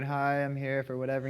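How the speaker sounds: mock bored, indifferent introduction. Shown as a demonstration. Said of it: "You don't wanna go in there bored".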